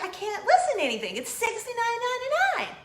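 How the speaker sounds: a loud, incredulous protest; outraged shout. Real, not acted. Outraged at app price.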